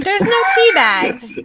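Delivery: high, loud protest over the others; loud objection. Real, not acted. Player correcting another over tea bags, loud objection.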